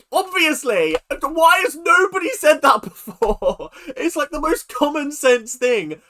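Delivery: high, loud, drawn-out disbelief; emphatic exclamation. Real, not acted. Reacting to why nobody said that before, loud exclamation. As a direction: cry out at how obvious it is. Exclaiming over the line they love.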